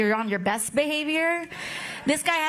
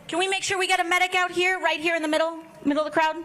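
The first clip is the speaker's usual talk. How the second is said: calling for a medic; 4 semitones higher, much faster than usual. Real, not acted. Crowd member collapsed at rally.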